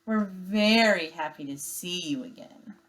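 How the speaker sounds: sarcastic. Acted. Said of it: "Her voice dripped with sarcasm".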